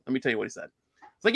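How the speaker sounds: usual speaking voice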